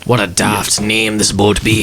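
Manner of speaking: hammy pirate captain grumbling; a gruff old sea-dog's complaint. Acted. Captain character speaking in a pirate voice.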